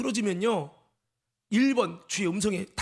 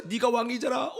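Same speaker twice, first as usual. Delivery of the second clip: restrained repeat of the inner rebuke; pointed charge, without screaming; accusing. Retold or imitated.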